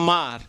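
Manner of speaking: "আমার" said as two separate parts, আ, then মার; split into syllables. Shown as a demonstration. Teacher repeating the word for students, "আমার" split in two. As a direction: break "আমার" after a held আ. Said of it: "শব্দের দুইটা অংশ ভেঙে গেছে".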